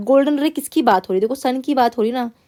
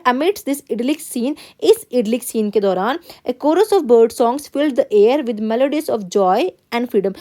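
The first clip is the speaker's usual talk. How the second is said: slow, careful classroom read-aloud; teacher reading a text to the class; much slower than usual. Acted. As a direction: read the passage word by word, x0.3 pace. Teacher reads passage aloud.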